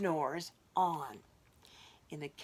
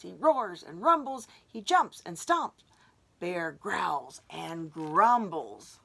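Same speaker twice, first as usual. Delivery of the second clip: loud; 6 dB louder than usual. Acted. Bear rages.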